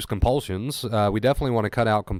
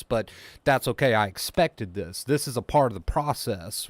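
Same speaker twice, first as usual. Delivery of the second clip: calm accepting inner voice. Shown as a demonstration. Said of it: "This is the inner voice you need to have".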